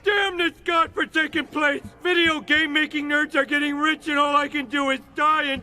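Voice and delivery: anguished rant. Acted. Cursed character ranting at fate.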